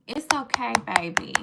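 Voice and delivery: put-on coddling baby talk, lifted then dropped; mock soothing. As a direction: comfort them like a fussy baby, teasing. Mock-comforting a confused critic.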